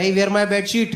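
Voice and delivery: plain-ish broken English question; lightly accented customer; mock foreign customer. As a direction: ask where the bedsheet is. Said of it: "मेरे वाला लगा पड़ा है".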